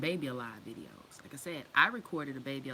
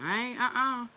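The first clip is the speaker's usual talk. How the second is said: grandpa refusing; 3 semitones higher, 4 dB louder than usual. Retold or imitated. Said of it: "my granddad in the background".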